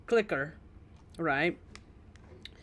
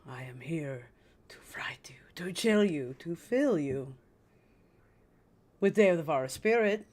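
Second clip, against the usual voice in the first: Venefica voice. Acted. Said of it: "the accent for Venefica".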